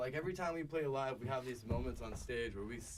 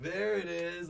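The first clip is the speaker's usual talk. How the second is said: excited raised call, higher and louder; 4 semitones higher, 7 dB louder, slower than usual. Retold or imitated. Bandmate recalling a moment on stage, called out loud. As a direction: call it out in recognition. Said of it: "I called it right out".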